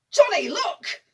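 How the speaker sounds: high, loud urgent cry; excited call. Acted. Nurse calling Johnny to see the lights, excited shout. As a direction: call out to make him look.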